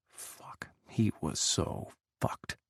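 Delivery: breathy whispered dread, slow; whispered inner curse. A narrator's reading. Ethan's silent curse as his cover breaks, whispered. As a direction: hush it out in private panic.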